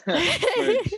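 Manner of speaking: word squeezed out through a high laugh; giggling in embarrassment. Real, not acted. Laughing at being seen in pajamas.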